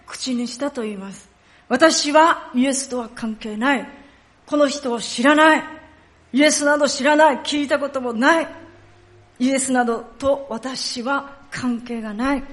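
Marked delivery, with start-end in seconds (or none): 1.7-12.4 mildly acted firm denial; flat-out denial. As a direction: disown him emphatically, point by point. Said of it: "そのように断言して言いました". (きっぱりと否認する口調)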